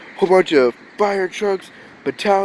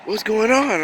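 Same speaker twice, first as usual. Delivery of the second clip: drawn-out fake wow, then a higher question; sarcastic; 3 semitones higher, slower than usual. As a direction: play along with mock amazement. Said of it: "sarcasm, not my biggest strong point".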